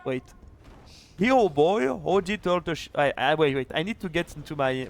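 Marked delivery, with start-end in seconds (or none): 1.2-2.9 hammed-up American cowboy accent, higher and louder. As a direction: ham up a Texan cowboy. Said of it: "That was my American accent".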